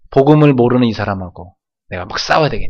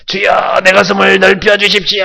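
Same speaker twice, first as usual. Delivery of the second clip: higher, pleading cry to God; fervent prayer; 7 semitones higher, 4 dB louder, slower than usual. Shown as a demonstration. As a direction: beg the Lord to widen your heart. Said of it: "한번 해볼까요?".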